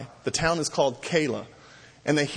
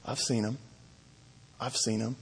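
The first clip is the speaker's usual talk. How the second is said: sly informer; 3 semitones lower, 8 dB quieter than usual. Retold or imitated. Doeg sinisterly rats David out.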